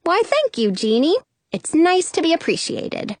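high, self-satisfied thanks; pleased and proudly gracious; puffed-up pride. A narrator's reading. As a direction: accept praise with mock grandeur. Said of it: "puff up my chest".

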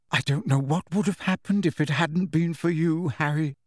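muffled, into a hug. Acted. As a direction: talk muffled against a shoulder. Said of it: "she said in a muffled voice".

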